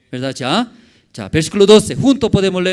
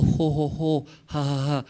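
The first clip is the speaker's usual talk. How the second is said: imitated chuckling. Imitating contented chuckling before Jesus.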